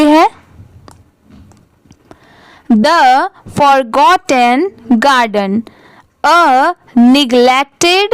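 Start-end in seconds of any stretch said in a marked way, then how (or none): 2.7-8.1 very slow, word-by-word reading aloud; careful model reading. Shown as a demonstration. Teacher reading the paragraph for learners, slow and deliberate. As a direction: read slowly with a gap after each word. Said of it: "पूरे paragraph को एक बार अच्छे से written read".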